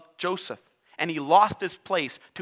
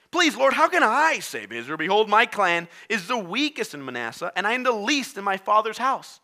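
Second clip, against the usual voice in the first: pleading Gideon; 4 semitones higher than usual. Acted.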